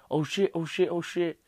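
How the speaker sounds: high, loud mock alarm; copying injured skaters. Retelling own injury, copying the skaters from videos, mock alarm. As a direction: wail it like a hurt skater. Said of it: "I was like, "Damn, skater".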